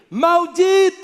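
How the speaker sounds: high, loud shouted Maldito; shouted curse. Shown as a demonstration. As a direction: yell Maldito into the echo. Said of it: "grita assim". (grito alto e agudo de Maldito)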